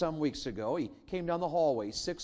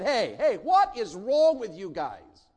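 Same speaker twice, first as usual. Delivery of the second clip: mock scolding; 8 semitones higher, 10 dB louder, slower than usual. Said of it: "I wasn't really upset".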